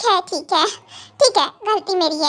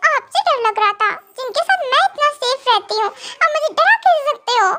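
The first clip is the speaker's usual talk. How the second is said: higher, teary complaining with a half-laugh; whiny crying wife; 5 semitones higher than usual. Acted. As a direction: sulk and whimper at the husband, higher. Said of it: "देखो रोना मत शुरू कर देना फिर से".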